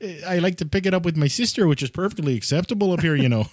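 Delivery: lightly put-on Fargo accent; regional accent. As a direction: keep up a hint of Fargo local. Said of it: "it is a regional thing".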